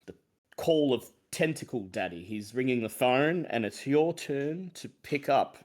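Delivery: measured, theatrical host intro with drawn-out phrases; deliberate show-opening delivery with rising list phrases; game master's opening. Acted. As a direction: usher listeners into an eerie adventure. Game master opens the session theatrically.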